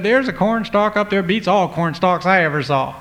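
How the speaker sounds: high, eager bragging; a boy telling his parents the wonder; excited. Acted. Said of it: "he got excited".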